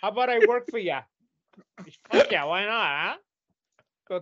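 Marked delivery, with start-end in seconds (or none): 0.0-1.0 brash Boston dreamer; Boston accent. Pretend. Puritan bragging about a Dunkin' franchise, Boston accent. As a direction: keep the Boston swagger. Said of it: "dead Boston accents".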